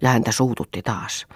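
plain reading voice

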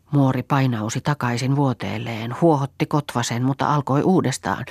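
plain reading voice

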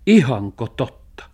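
loud, drawn-out disbelief; shouted question. A narrator's reading. Dog hears he is to be sold, shouted. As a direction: cry it out slowly as the startled dog. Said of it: "huusi Musti".

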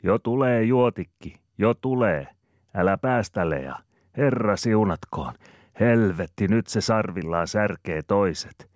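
loud, high calls driving the cows; a farm woman hollering at cows and children; shouting at cattle. Acted. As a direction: yell at the herd from the trough. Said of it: "Rosina huutaa".

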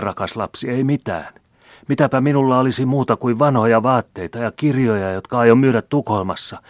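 put-on high, loud, flustered old man; startled protest. A narrator's reading. Old man denies to the maid owning anything, startled. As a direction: protest anxiously, pitched well up. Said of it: "huudahti äijä aika tavalla säikähtäen".

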